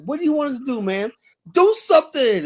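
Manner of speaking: high, pleading school board lady; mock exasperated official. Board member pleading with parents, high exasperated mock voice. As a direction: throw up your hands and beg, pitched high. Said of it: "was like".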